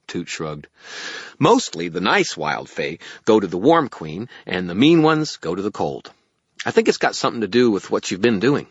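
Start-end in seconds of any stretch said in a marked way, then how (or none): 1.4-8.7 loud, raised little fairy voice. Acted. Fairy explains the war to the wizard, fairy voice. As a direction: explain it in a high fairy pipe.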